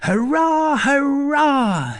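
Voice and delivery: high, drawn-out cheer; exultant young scamp's shout. A narrator's reading. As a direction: cry it out high over the uproar, stretching each hurrah. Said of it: "he was shouting".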